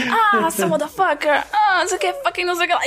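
hammed-up American action-movie line; Tarantino movie intonation. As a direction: imitate movie dialogue, half laughing. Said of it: "falando com entonação de filme".

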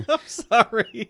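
choking on water, laughing; sputtering after swallowing wrong; coughing up water. Real, not acted. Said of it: "We're gonna do the Heimlich maneuver on him".

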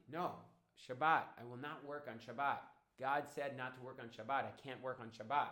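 calm, firm refusal at an everyday pitch; calm but proud. Acted. Dodi refusing to work on Shabbat, calm but proud. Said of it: "calmly but proudly".

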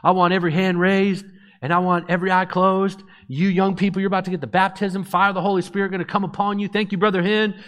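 high, loud mock revival preacher; imitated woman pastor. Woman pastor takes over the microphone before the youth, mock preaching. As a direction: imitate a fired-up preacher on one sustained high pitch. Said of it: "She grabs the microphone and goes".

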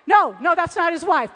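loud, re-enacted denial; emphatic dismissal. Woman rejecting a candidate on the video, loud dismissal. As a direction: shout it down as if at the screen. Retold reaction while watching video.

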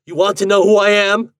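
high, loud furious demand; ringing rage. A narrator's reading. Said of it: "His voice rang with rage".

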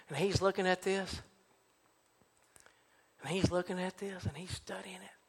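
soft, low, nearly whispering by the end; hushed suspense. Real, not acted. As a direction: draw out the silence with pauses. Hushed suspense in museum story.

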